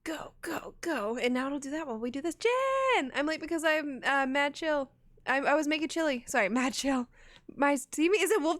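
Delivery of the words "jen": high, loud held-out name; calling out. Real, not acted. Streamer greeting a viewer mid-stream, loud high call.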